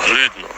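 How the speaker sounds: Hlidno with an Ö-like vowel; Hlidno, first vowel rounded toward Ö; village pronunciation. Shown as a demonstration. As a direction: say Hlidno with Ö in place of i. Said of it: "need to pronounce in something like".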